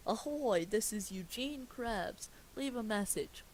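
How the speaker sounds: lightly voiced Mister Krabs impression; a hint of a gruff sea captain. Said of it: "Plankton begins impersonating Mister Krabs' voice".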